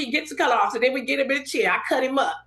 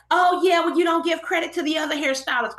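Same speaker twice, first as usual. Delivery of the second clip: pitched-up imitation of critics; mock the objectors in a higher voice; mimicked complaint; 5 semitones higher than usual. People griping about credit for other hairstylists, mimicked complaint.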